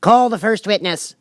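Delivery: high, loud royal command; the king giving an order. Acted. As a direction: order the herald about pompously. The king's voice.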